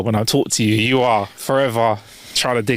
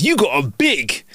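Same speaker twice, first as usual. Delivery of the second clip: catcalling stranger; 5 semitones higher, much slower than usual. Retold or imitated. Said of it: "He goes".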